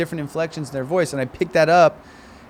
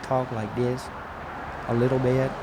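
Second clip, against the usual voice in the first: mock Chinese accent; 6 dB quieter than usual. Shown as a demonstration. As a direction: ease into a caricatured Chinese accent. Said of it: "let me hear you talk as a Chinese person".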